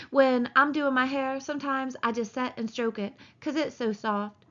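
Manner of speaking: a hint of a flirty ranch wife; Curly's wife. Curly's wife talks to Lenny.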